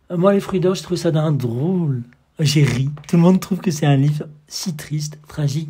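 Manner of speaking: loud, high, eager declaration; loud eager gushing. Acted. Salon guest loudly confessing she laughed at the book. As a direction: gush as if revealing a secret delight.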